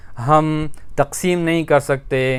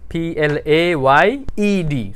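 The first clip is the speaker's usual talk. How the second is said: "पी एल ए वाई ई डी" spelled letter by letter, slowly; slow spelling; much slower than usual. Shown as a demonstration. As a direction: dictate each letter slowly to the class. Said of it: "played". (धीरे-धीरे spelling)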